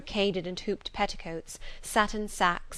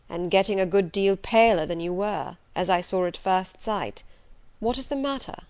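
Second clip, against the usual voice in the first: gruff concerned master; 4 dB louder than usual. Acted. Rochester notices her paleness.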